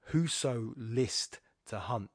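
slow, separate beats on "Whoso list to hunt"; measured scansion reading of "Whoso list to hunt"; counting out stresses. Shown as a demonstration. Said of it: "I can count six stresses there".

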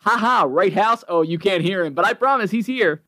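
a hint of a nervous host faking a guest; lightly voiced fake laugh, covering for an absent co-host; mock Bill. Imitating Bill pretending House is there, with a mild fake laugh.

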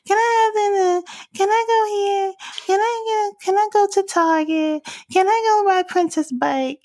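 put-on high-pitched sing-song child begging; whiny kid voice. Mom imitating her daughter nagging for things, high sing-song child voice. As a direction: pitch it way up and sing-song each request like a pestering toddler. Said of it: "high-pitched voice in a sing-song fashion".

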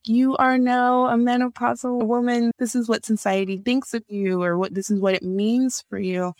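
a hint of a scolding yell; mock yell. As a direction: let the symptom shout it at you. Symptom yelling at you.

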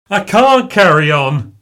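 loud, high anguished scream. A narrator's reading. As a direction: scream it out, at breaking point. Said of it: "I screamed".

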